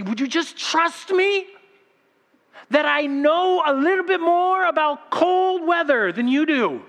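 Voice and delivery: slow exasperated dad's plea ending in a laugh. Retold or imitated. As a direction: drag it out like a worn-out dad begging. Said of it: "I just wanna look and say".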